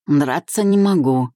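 ordinary delivery

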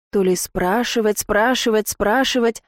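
ordinary delivery, nothing marked

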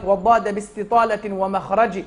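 slow, measured recital of a didactic poem; steady, drawn-out chanted verse; verse recitation. Acted. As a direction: recite the tajweed verse slowly and deliberately. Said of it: "قال لك".

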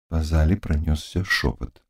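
plain reading voice

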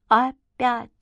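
echoing her mother's word. A narrator's reading. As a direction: repeat the word back like an echo. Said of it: "эхом отозвалась Света".

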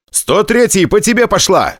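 high, urgent call over the radio; loud radio warning. Acted. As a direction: warn the wingman loudly. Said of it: "громко сказал я в эфир".

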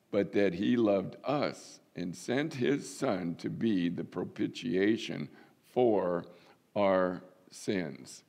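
slow, measured reading of the Bible verses; scripture reading. Acted. Pastor reading verses to the church, slow and measured. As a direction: read the text to the congregation, deliberately.

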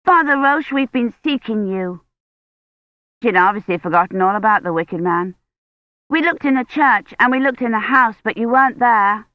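lightly voiced high little girl; Agnes, eager child.

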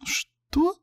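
very high startled cry; shocked outburst; Layla exclaims. A narrator's reading. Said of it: "воскликнула Лайла".

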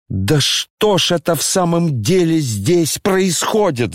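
Коля вдруг вскипает на отца, взволнованно-раздражённо; flaring up at father, voice rising; boiling over. Acted. Сын вспыхивает на плачущего генерала, взвинченный тон. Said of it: "закипел вдруг Коля".

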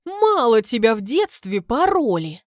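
stern, forceful reproach; scolding. A narrator's reading. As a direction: berate her for her cheek. Марта бранит героиню.

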